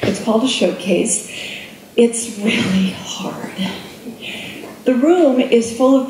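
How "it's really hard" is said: hushed, slow whisper; whispered aside. Real, not acted. Speaker confiding to the audience in a slow whisper. Confessing how hard auditions are.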